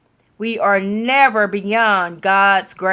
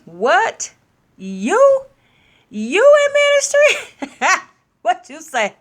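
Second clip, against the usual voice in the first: incredulous laughing; 9 semitones higher, slower than usual. Retold or imitated. Mocking doubters who ask if he is in ministry, laughing high. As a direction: cackle at the idea he could preach.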